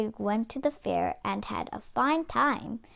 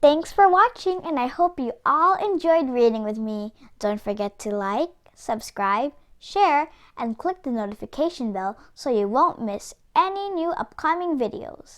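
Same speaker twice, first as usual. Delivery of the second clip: youtube outro; 4 dB louder than usual. Real, not acted. Channel outro.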